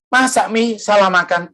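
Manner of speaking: high-pitched disbelief, acted; retold doubtful question, starting high; incredulous son. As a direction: act out a son who can't believe his mother. Acted son doubting mother's confession.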